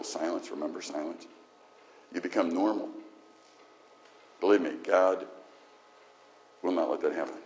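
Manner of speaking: God correcting his servant, mild and grave. Acted. God speaks to Moses.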